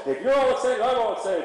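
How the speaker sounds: be the horse catching your buzz; a horse voiced as all fired up; excited horse. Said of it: "your horse go".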